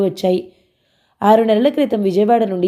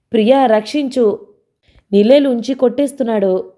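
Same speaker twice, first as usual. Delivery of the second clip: mock yell for help, only a bit louder and higher; loud cry for help; 4 semitones higher than usual. Suryam losing at carrom, calling Priya for help in a mild mock yell. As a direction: call out to Priya as if being beaten at carrom, half in jest. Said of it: "Suryam గావుకేక పెట్టాడు".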